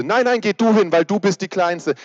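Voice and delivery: put-on high, loud protesting child; squabbling kid. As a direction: push it back on the little one. Kinder streiten, wer hingeht. (protestierendes Kind, hoch und laut)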